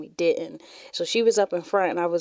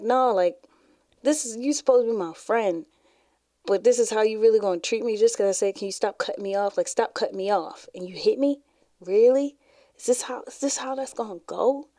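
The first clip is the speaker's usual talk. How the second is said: indignant; 3 semitones higher than usual. Retold or imitated. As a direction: act out hurt disbelief at a friend. Acts out indignation at her friend.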